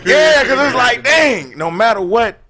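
hammed-up crying, high; mock crying. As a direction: fake sob it out. Mock crying over lost girl.

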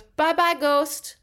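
put-on high, sing-song little kid voice; bright child waving bye; toddler voice. Toddler waving at the door, high child voice. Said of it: "and he goes".

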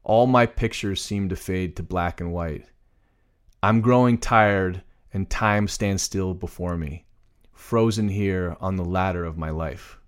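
measured, unsung reading of lyrics; plain spoken lyrics. Shown as a demonstration. Co-host reads song lyrics as examples, plain recitation. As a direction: recite the lyric line by line, with pauses.

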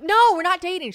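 shrill exasperated mock denial; loud teen protest. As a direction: yell it at Mom, mortified. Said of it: "I'm like".

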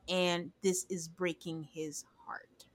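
soft, slow whisper; slow breathy hushed aside. Retold or imitated. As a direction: hush it like a secret. Quoting Justin's mic talk.

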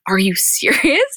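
slow, drawn-out disbelieving question; incredulous disbelief. Retold or imitated. Host reacting to Scott's proposal, slow drawn-out disbelief. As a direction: stretch it out, can't believe it. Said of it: "And I'm like".

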